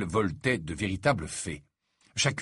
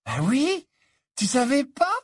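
giggling; 4 dB louder than usual. A narrator's reading. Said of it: "avec un gloussement de rire".

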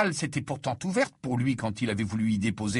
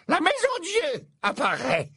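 mock murmured prophecy; 14 semitones higher than usual. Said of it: "murmura-t-elle".

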